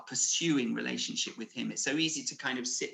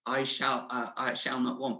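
floaty, nice. Shown as a demonstration. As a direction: toss it off without conviction. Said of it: "a floaty, nice".

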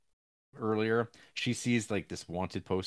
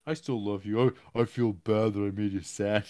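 mock-earnest apology, raised pitch; pleading lover; 4 dB louder than usual. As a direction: coax her back, lightly hammed. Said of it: "he says".

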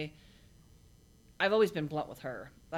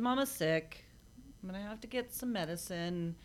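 put-on gentle to little kids; 3 semitones higher than usual. Mother explaining illness to little kids.

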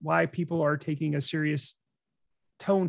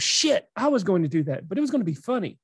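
exasperated; 2 semitones higher than usual. Retold or imitated. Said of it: "He goes".

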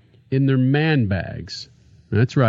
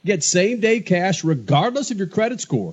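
upbeat radio ad read; 2 semitones higher than usual. Acted. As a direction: sell it like a sponsor spot.

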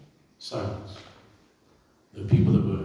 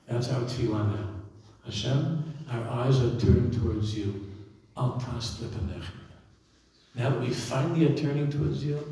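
earnest prayer. Acted. Pleading prayer to Hashem.

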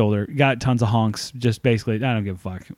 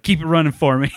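breezy cocky; 4 semitones higher, 3 dB louder than usual. Retold or imitated. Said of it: "Creed Branton style".

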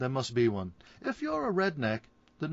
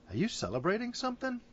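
barman voice; 10 semitones higher, faster than usual. Acted.

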